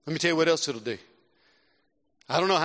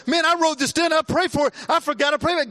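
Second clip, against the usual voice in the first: surprised realization; 10 semitones higher, 4 dB louder than usual. Retold or imitated. Rediscovering an old written prayer.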